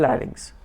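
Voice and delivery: लैरिंक्स begun on L, though spelt with P; pronunciation demo. Shown as a demonstration. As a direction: say लैरिंक्स with an L at the front. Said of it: "पर उसको बोलते हैं".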